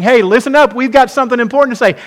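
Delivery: quick, insistent call to listen; rally the room as if clapping for attention; hurried, emphatic announcement of something important; urgent attention call. Acted. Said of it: "Jesus is clapping, saying".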